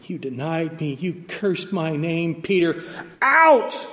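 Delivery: building to a loud high "Out!"; mock rejecting Jesus. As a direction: play the rejection Jesus never gave. Voicing Jesus rejecting Peter hypothetically.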